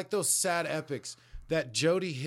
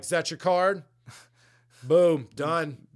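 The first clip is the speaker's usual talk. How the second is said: louder, higher, smug and punchy; cocky reveal; 4 semitones higher, 8 dB louder than usual. Retold or imitated. Daughter shows off her card trick, cocky and loud. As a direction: nail the reveal like a show-off. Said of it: "she's also like".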